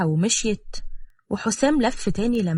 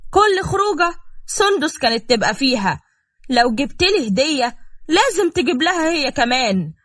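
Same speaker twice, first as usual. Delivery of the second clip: higher-pitched, resentful listing of grievances; aggrieved complaint; 5 semitones higher than usual. Acted. Wife complaining to Hossam about his sister, aggrieved. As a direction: pile up the grievances, pitch climbing towards the end.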